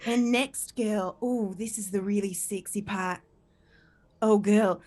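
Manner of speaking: lightly put-on Australian accent, mock-seductive; imitated Australian man. Australian ASMR man introducing the sexy part, in a mock Australian accent. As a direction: tease like an Australian ASMR lover. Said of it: "You know, he's Australian".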